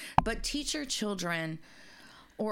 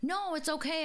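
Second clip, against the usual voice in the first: high-pitched, soothing it's-fine voice; retold reassurance; 10 semitones higher than usual. Telling how the cashier was comforted, high reassurance. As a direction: reassure her, pitched well up.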